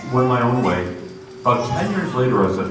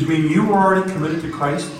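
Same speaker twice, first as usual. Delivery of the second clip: stunned disbelief; 8 semitones higher than usual. Retold or imitated. Waitress stunned by his answer.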